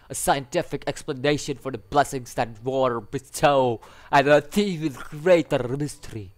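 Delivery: puts on a vague Spanish accent; mock Spanish guy. Reading the gleeful doctor's lines aloud, mock Spanish accent. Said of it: "from hot guy to Spanish guy".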